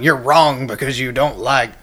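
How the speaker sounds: mock finger-wagging character voice; put-on scolding voice. Host mimics those who condemn hardcore music, put-on scolding voice. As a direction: put on a silly voice for a judgmental churchgoer. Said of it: "I start doing this voice".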